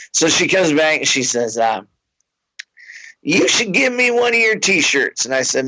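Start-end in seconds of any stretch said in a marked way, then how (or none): 3.2-5.3 higher, insistent fan voice; tipsy fan. Retold or imitated. Fan pressing the comic about her ex, higher. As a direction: lean in, sure he knows.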